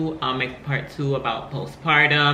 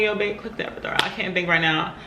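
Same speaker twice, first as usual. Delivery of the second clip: higher, rushed plea; retold urgent demand; 5 semitones higher, faster than usual. Laboring woman to her boyfriend about the epidural, rushed and urgent. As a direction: rattle it off in mock desperation.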